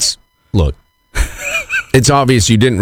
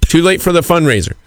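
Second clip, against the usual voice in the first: flustered apology; 5 semitones higher than usual. Retold or imitated.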